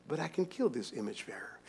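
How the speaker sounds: sinister whispered plot, "kill" falling. Retold or imitated. Pastor voicing Cain plotting against his brother, whispered. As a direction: breathe it like a secret murder plan.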